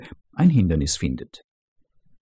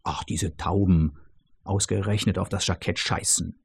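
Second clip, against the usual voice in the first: exasperated outburst; 4 semitones lower, 6 dB quieter than usual. Acted. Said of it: "entfährt es dem Chefingenieur".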